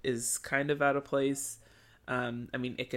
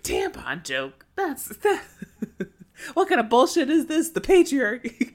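high, loud outrage breaking into laughs; squealing fake fury, cracking up; laughing mock outrage; 12 semitones higher, 8 dB louder than usual. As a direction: rant in disbelief through giggles.

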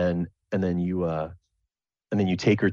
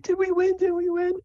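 put-on much higher, bouncing, eager kid begging to start; can't wait, tell me now; high hyper girlish voice; excited Sable. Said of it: "she's like".

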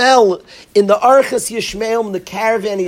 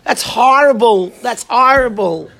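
sarcastic; 2 semitones higher than usual. Acted. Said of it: "He's being sarcastic".

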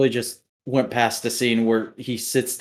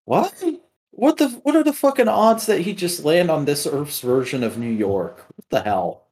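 high, incredulous what-the-hell; acting out his own shock at the twist; stunned disbelief; 6 semitones higher than usual. Retelling his shock at the New York twist, high and incredulous. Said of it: "and I'm like".

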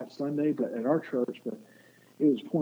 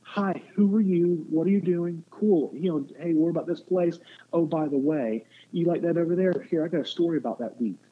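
friendly casual greeting; 3 semitones higher than usual. Retold or imitated. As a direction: greet a stranger like a laid-back buddy. Jesus voiced as casual and friendly.

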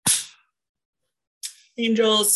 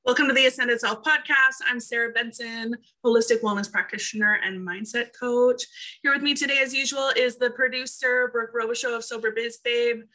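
podcast host intro; 3 semitones higher than usual. Acted. Host opening the podcast for listeners, bright announcer read. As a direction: welcome listeners like a radio host.

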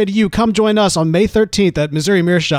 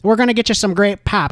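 mock Midwest accent; 4 semitones higher than usual. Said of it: "whenever I hear a grown person say".

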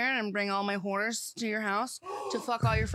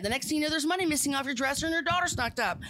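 movie quote; 4 semitones higher than usual. Retold or imitated. Quoting Tommy Boy lines.

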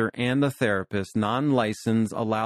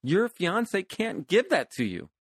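higher, laughing as she voices her own advice; 7 semitones higher than usual. Retold or imitated. Therapist to client, amused and laughing. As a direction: let the laugh spill into the words. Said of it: "I'm like".

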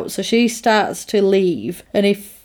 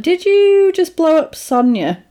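high, incredulous retold question; acted-out disbelief, pitched up; mock astonishment; 8 semitones higher than usual. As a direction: imitate someone stunned and impressed. Voicing Max after the explosion.

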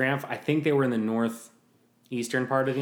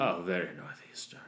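lower, softer put-on snobbery; mock fancy enthusiast; 4 semitones lower, 6 dB quieter than usual. Mister Fancy agreeing about the architecture, mock refined. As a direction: echo it with affected refinement.

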